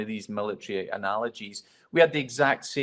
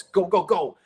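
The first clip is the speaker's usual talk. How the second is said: sharp, higher, louder go go go, like ordering the room out; replaying the command to send everyone running; retold shout; 7 semitones higher, 5 dB louder than usual. Rookie ending his briefing to the hangar, shouted command.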